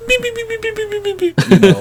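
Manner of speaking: high, quick robotic beeps; beeping computer noise. Retold or imitated. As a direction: chirp like a ship's computer. Imitating Enterprise computer sounds.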